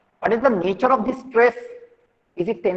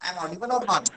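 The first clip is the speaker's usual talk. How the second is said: faint voice on a dying mic; very soft, far from the mic; barely audible; 8 dB quieter, faster than usual. Real, not acted. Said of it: "battery of the mic is, uh, dead".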